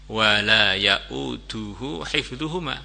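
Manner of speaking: very slow, drawn-out Quran recitation; measured tartil recitation. Retold or imitated. Sheikh recites Ayat Kursi before the jinn, slow tartil. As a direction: recite with long, stretched syllables. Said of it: "baca ayat kursi dengan tartil".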